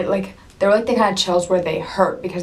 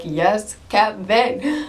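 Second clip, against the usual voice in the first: cheering fan; 3 semitones higher, much slower than usual. Retold or imitated. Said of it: "I was like".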